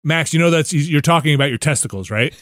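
imitating a matter-of-fact parent; lightly voiced stern explanation; no-nonsense mother. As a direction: spell it out evenly, no nonsense. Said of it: "Brooks no nonsense".

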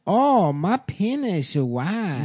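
slow, drawn-out put-on voice of a comic character; mock Margaret Chode voice. Cohost asks what Margaret Chode says, answered in a slow, mocking put-on voice. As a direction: stretch every word out, hamming up an invented comedian. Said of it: "what the fuck does she say?".

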